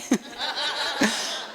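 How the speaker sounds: squeaky high laugh; real high-pitched giggle. Real, not acted. Laugh after the quote.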